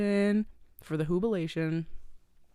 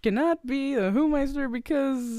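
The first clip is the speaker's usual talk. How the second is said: lightly voiced Grinch reading out a rule, higher pitch; imitating the Grinch; 4 semitones higher than usual. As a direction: play him stalling as he reads aloud. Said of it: "'cause he's like".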